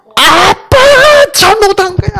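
put-on very high, frantic, sobbing child's wail. Father retelling how his second daughter hit his chest, imitating a child's crying shout. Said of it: "막 미친 듯이 그래".

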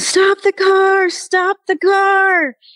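put-on very high, long, drawn-out shriek. Recalling a shock in the car, the speaker is retelling her own scream. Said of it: "I am screaming at my husband".

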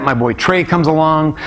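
ordinary delivery

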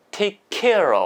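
care stressed hardest, the middle word. English lesson explaining the stress in a phrase: stress on care. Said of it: "이 중간에 강세가 있거든요".

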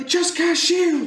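shrill, very high shouted yell. Recapping a game turn, the speaker voices a party member's reaction; retelling a yell. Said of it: "And Ziva yells".

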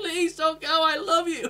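mock very high, frantic, panicked pleading. Imagining the Doctor's sacrifice speech, acting out Yaz panicking. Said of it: "Yaz panics and goes".

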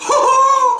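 squeaky, high cartoon laughter. Imitating someone's laugh in Dutch, a Mickey Mouse laugh. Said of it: "Het is een Mickey Mouse lach".

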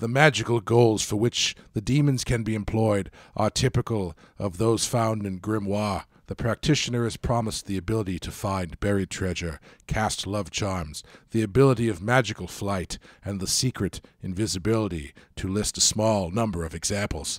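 eerie, spooky, creepy read-aloud voice. Reading a Wikipedia text aloud to others as a creepy voice reading. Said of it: "translate into a creepy voice reading".

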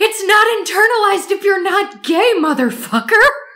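put-on, very high, shrill, furious yell. Telling a story about a friend cussing someone out, retelling a yell.

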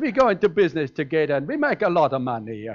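imitated Italian accent. A speaker quotes his Italian brother-in-law's words; imitating Stefano's Italian accent. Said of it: "my brother-in-law is Italian".

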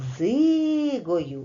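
called out, first syllable дзи of дзигою drawn out. Checking word stress by calling out the word, drawn-out first syllable 'дзи'. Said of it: "нібито прокричавши слово дзигою. Дзигою. Довше тягнеться перший склад".

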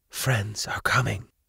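quiet, soft half-whisper. Answering a woman's desperate plea while the herald rambles on, half-whispered. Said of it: "Alicent whispered back".

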